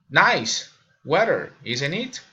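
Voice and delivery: slow falling "Nice weather", rising "isn't it"; falling-rising tag question. Shown as a demonstration. Learner demonstrating tag questions, falling then rising. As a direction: drop on "weather", lift "isn't it". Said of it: "falling or raising intonation".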